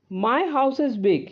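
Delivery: each word said slowly and apart; slow example sentence. Shown as a demonstration. Teacher showing a positive degree example, slowly. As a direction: model the sentence slowly for the class. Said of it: "ये एक positive degree है".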